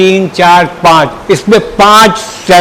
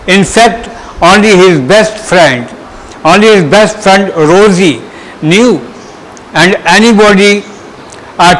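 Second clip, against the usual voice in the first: teacher's careful dictation-like story reading; reading aloud. Shown as a demonstration. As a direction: read the story to pupils in short phrases, pausing between them. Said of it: "मैं पहले reading कर दे रहा हूँ".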